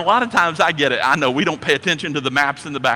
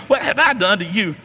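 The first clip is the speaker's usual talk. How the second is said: Eddie Murphy donkey; 5 semitones higher than usual. Acted. Preacher playing the talking donkey for laughs, a light comic voice. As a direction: toss the line off as a playful movie donkey. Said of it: "read it with your best Eddie Murphy impersonation".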